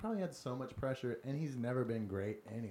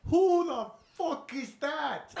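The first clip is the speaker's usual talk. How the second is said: much higher, slow, laughing mock Irish brogue; a bad Conor McGregor Irish accent, cracking up; hammed-up Irish accent quoting McGregor; 14 semitones higher, 9 dB louder, much slower than usual. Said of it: "That's such a bad accent".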